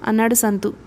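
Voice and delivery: ordinary delivery, nothing marked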